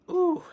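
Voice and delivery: hiccup squeak. Real, not acted. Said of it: "I have hiccups".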